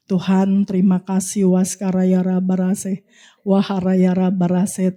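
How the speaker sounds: low, slow, chant-like prayer; prayer in tongues. Real, not acted. Preacher thanks God in tongues before prophesying, prayerful. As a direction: pray slowly on a low, level pitch.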